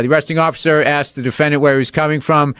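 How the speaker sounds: matter-of-fact official read-out; bailiff reading. Retold or imitated. Bailiff reading the arrest report aloud in court, formal recital. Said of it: "And the, the bailiff read the thing".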